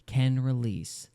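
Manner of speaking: slow, deliberate mock quoting; drawn-out quote. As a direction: let each word hang. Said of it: "let's just pause and marinate on that term".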